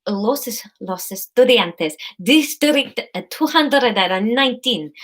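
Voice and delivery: halting, put-on Spanish accent; attempted Spanish accent. Courier pretending to read a label, put-on Spanish accent. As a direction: try the Spanish accent carefully. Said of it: "I just can't do accents at all".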